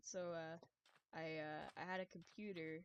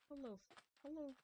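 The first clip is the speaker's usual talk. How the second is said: calling hello; 6 semitones higher, 5 dB quieter than usual. Real, not acted. Calling out repeatedly in game.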